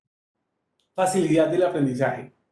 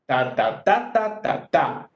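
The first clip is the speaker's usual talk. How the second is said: third "ta" pitched up and stressed; accent on third; 3 semitones lower, slower than usual. Shown as a demonstration. Teacher sounding pasillo accents, stress on the third "ta". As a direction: chant "ta, ta, TA", lifting the third. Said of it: "haciendo el acento en la tercera".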